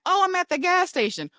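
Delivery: high, breezy reply; a touch of mock carefree mom; mom's casual answer. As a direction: answer lightly like nothing's wrong. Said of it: "where I ask".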